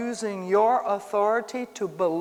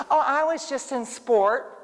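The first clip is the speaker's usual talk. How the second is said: higher, breezy dismissive excuse; mocking scoffer; 5 semitones higher than usual. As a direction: brush it off like a mocker. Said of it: "they say, laugh".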